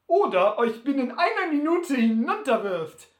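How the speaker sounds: lauter, höhnischer Angeber; großspurig und laut prahlen; Butler prahlerisch. Acted. (Butler verhöhnt Sam laut)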